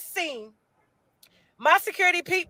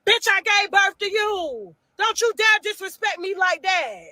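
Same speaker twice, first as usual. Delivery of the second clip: scolding. Retold or imitated. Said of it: "And I told her".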